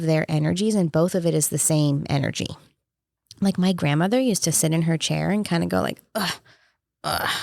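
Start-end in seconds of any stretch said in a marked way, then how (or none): 6.1-7.3 mild imitated groans of discomfort. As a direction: grunt softly like a tired grandmother in her chair. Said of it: "she would make these noises".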